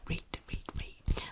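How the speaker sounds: Yorkshire "read" whispered as "reet", long ee. Shown as a demonstration. Yorkshire reet, whispered to viewers. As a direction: clip "read" short like "reet". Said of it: "we use read for very as well".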